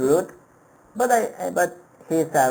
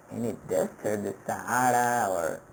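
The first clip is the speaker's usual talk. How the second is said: waiter's reply; 4 semitones lower, 6 dB quieter than usual. Retold or imitated. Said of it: "the waiter mishearing, a joke".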